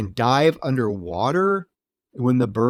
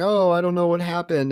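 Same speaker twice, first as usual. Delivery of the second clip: mock frantic, hysterical, high-pitched distressed voice; 5 semitones higher than usual. Retelling a film scene where a hysterical woman is let in: imitating a hysterical woman. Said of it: "She's hysterical".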